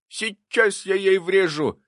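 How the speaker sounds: high, loud, slow threat; fired up for a swing; excited cry. A narrator's reading. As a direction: cry it out high and eager, stretching the words. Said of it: "азартно крикнул Прохор".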